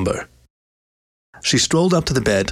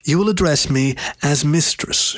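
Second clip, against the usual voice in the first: a mild command, pitched higher; 5 semitones higher than usual. Acted. Lioness setting rules for her new pet, mild command. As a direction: lay down the rule to him, lightly. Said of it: "she commanded".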